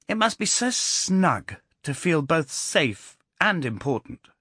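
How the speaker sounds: sweetly needling the great man; innocent-sounding boy. A narrator's reading. Boy John speaks.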